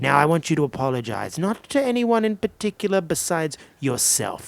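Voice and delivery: theatrical demand for an apology; hammed-up lecture to a cheater; mock-grand scolding. Acted prank voicemail moralizing on stage.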